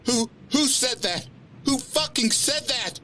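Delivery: high, stammering fear rising to anger; from scared to furious; fear turning to anger. Acted. Woman demanding who spoke, fear turning to anger. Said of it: "Fear becoming frustrated anger".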